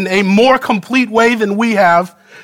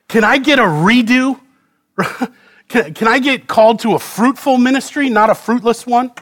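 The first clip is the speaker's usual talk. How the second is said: higher, fast and half-laughing; pleading for a redo; 4 semitones higher than usual. Acted. Isaiah begging God for a fruitful ministry, higher and pleading. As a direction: plead like you want a do-over.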